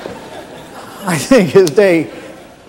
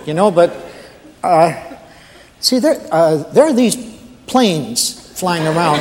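hesitant, stammering night watchman; lightly voiced, deferential rookie guard; nervous new guard. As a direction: stumble politely through an awkward report to the boss. Plays a new guard phoning his boss.

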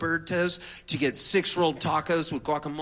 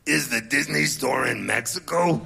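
lightly voiced singer, dry and puzzled; a singer's puzzled question; 2 semitones lower, 5 dB louder than usual. Storyteller voicing a singer puzzled at the Tijuana sign.

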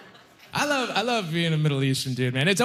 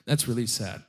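quieter, lower, sadder repeat; 4 semitones lower, 4 dB quieter than usual. Retold or imitated. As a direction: let it sink, softer and lower. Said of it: "And I thought".

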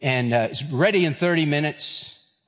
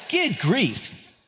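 exasperated; 7 semitones higher than usual. Real, not acted. Exasperated at his smartphone.

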